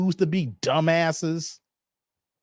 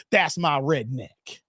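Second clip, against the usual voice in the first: slow, lower mocking voice of a white guy; a hint of a put-on white guy; 5 semitones lower than usual. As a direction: drawl it out lazily as a mock white guy. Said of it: "white people say".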